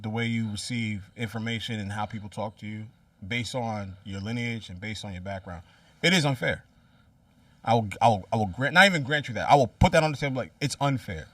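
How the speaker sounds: calm closing statement in an argument; low, serious. Real, not acted. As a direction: drop the voice to make a final point. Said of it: "I'll leave it at this".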